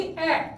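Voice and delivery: ए said as a short open 'a' as in cat; short A sound. Shown as a demonstration. Teacher showing the class the short sound of A, short ए. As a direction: give ए as a brief 'aeh' vowel. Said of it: "ए की short sound क्या होगी".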